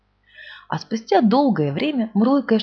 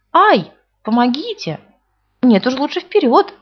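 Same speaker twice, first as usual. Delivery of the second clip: louder, higher, slow yell; cry for help; 5 semitones higher, 6 dB louder than usual. A narrator's reading. Stuck Pooh yells for help, louder. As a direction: call out, stuck in the hole. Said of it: "он закричал".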